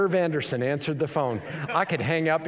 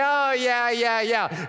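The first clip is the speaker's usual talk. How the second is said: high, brush-off string of agreement; feigned disinterest; 6 semitones higher, slower than usual. Retold or imitated. Listener outwardly humoring a believer, seemingly uninterested. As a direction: imitate someone humoring you. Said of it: "they don't seem very interested".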